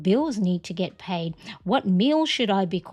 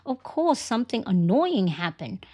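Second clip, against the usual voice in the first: mock realization; 3 semitones higher than usual. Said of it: "And then you go".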